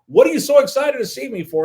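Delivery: high-pitched, loud incredulous question; retold grilling. Manager grills reporter over his excitement, incredulous. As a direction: imitate someone demanding an explanation, pitched well up.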